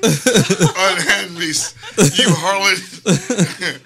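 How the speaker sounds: slow theatrical scolding through laughs; hammy stage actor. Pretend. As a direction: ham it up like a Shakespearean player. Mock old-fashioned rebuke.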